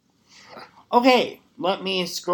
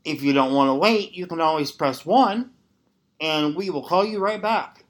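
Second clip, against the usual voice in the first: phone menu voice; 3 semitones higher than usual. Pretend. Continuing the phone hold message.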